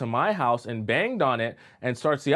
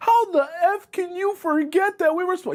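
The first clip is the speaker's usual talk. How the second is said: mock shrill, raging, furious scream, high pitch; 4 dB louder than usual. Speaker acts out a woman yelling at a man who forgot their date, acting out angry screaming. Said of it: "You're screaming in the hallway".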